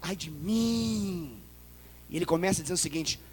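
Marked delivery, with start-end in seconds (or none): 0.0-1.4 very slow, soft-spoken "Ai de mim"; quiet lament. Acted. Preacher voicing Isaiah's lament softly. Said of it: "ele fala".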